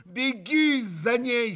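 urging his brother to run after her; urgent call. A narrator's reading. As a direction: hurry your brother off. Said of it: "стремительно обратился к брату Митя".

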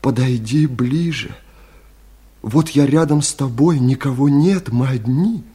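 lightly voiced woman, coaxing; woman's tender invitation. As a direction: gently beckon a lover closer. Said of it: "и сказала". (нежно, маняще)

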